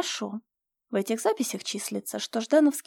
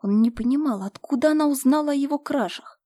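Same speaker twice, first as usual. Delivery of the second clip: plain reading voice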